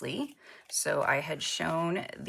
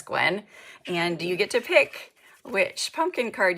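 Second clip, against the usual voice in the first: high, loud, thrilled winner call; hyped giveaway announcement; 5 semitones higher, 5 dB louder than usual. Real, not acted. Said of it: "announcing giveaway winner Gwen".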